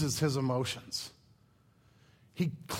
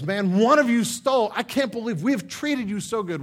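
loud, accusing, higher-pitched outburst; accusing shout; 6 semitones higher, 8 dB louder than usual. Acted. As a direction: bark the accusation at the brothers. Steward accuses the brothers.

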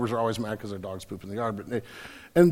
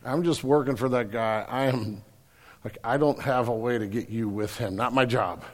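slow, shrugging worker voice; lightly voiced lawn guy, slow and unbothered; indifferent lawn worker; 3 semitones lower, 4 dB quieter, slower than usual. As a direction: play the hired hand who just doesn't care. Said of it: "The True Green, Green guy's like".

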